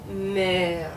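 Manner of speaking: "mère" held long and level-to-falling; grave accent, going down. Shown as a demonstration. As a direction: stretch the EH of "mère" downward. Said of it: "like it's going down".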